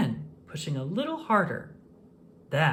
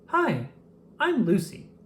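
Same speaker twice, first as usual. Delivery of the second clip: put-on little girl; 6 semitones higher than usual. A narrator's reading. Little girl introduces herself.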